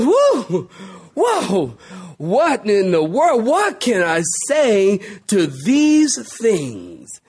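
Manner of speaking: slow, stunned mock awe as if just coming round; dazed awe. Preacher playing Paul waking from a faint, slow stunned awe. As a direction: stagger back into speech, amazed and slow. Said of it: "he goes".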